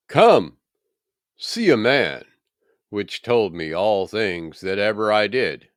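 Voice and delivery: loud, high call to the townsmen; a woman breathlessly summoning the city; excited calling out. Acted. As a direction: rush to the men and call them over. Woman calls the city men.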